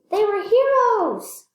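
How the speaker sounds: high, loud, slow and proud; proud exclamation. A narrator's reading. Narrator to listener, explorers as heroes, slow proud exclaim. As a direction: proclaim it like a triumphant cheer. Story climax, explorers praised.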